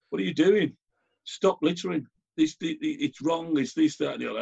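high-pitched telling off of a litterbug; telling off litterer. Retold or imitated. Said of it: "I'm going".

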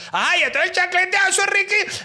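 high, eager voice of a local explaining; chirpy Caribbean Colombian local; coastal local man. Retold or imitated. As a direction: play the helpful village guy. Local man's punchline.

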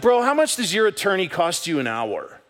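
mock heated challenge. Retold confrontation, admits having a tone.

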